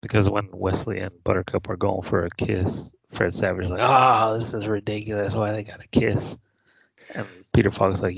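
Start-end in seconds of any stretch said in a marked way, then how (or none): 3.8-6.4 lightly voiced disgusted kid; complaining kid. Voicing kid disgusted by a kiss.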